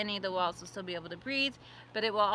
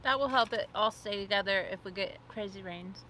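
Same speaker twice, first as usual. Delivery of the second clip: talking around ice in mouth; words muffled by a mouthful of ice. Real, not acted. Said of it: "I shouldn't have put ice in my mouth".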